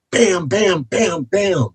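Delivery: imitated pounding. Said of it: "there's pounding on the walls".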